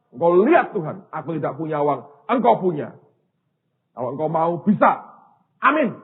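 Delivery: punchy, declarative plea to God; bold prayer. Retold or imitated. Preacher telling God he has no money, bold prayer.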